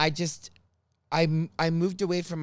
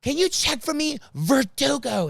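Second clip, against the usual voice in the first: high, loud calling across the office; mock yelling clerk; 9 semitones higher, 5 dB louder than usual. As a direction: call out to the booth. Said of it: "she starts yelling at the lady".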